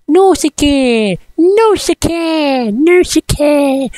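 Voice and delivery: Nausicaa said high and slow as "no-see-kay"; American pronunciation. Retold or imitated. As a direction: drawl it out the American way. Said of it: "they pronounce it as".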